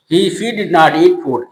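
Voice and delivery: slowly, word by word; slow dictation. Shown as a demonstration. Teacher reading the finished sentence to students, slowly. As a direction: read the full answer for copying. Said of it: "building the sentence".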